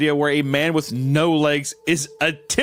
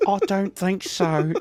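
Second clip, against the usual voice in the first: baffled, bewildered fantasy elf voice; 4 semitones higher than usual. Player redoing another player's line to show the imagined delivery, put-on bewildered elf voice. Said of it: "I imagine like a bewildered elf".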